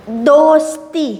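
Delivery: slow, drawn-out दोस्ती for spelling. Shown as a demonstration. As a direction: stretch दोस्ती out slowly for the class. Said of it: "देखिए किस तरह से लिखना है दोस्ती". (दोस्ती धीरे-धीरे खींचकर बोलना)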